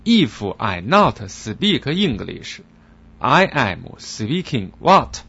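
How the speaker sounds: slow, indignant broken English; impatient receptionist. Acted. Receptionist getting impatient with the foreigner. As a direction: talk down, annoyed. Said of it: "前台小姐有点急了".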